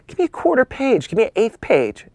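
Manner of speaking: very high, pleading mock voice; begging. Young photographer haggling with a magazine for space, begging. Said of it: "I begged Hollywood Life".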